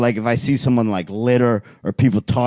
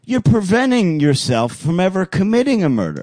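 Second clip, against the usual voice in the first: therapist voice; 7 semitones higher than usual. Retold or imitated. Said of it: "he goes".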